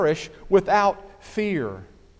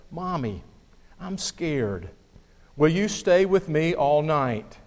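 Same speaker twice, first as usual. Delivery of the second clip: put-on a frightened little boy asking mommy to stay; trembling child's voice. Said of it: "asked in a trembling voice".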